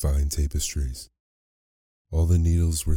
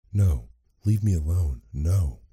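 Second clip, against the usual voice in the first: frightened cry; 2 semitones higher than usual. A narrator's reading. Beauty refuses the beast's proposal, mildly frightened cry. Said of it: "she shrieked".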